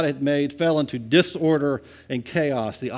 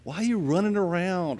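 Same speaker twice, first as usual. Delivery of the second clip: soothing voice. Retold or imitated. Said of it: "The other mind is going".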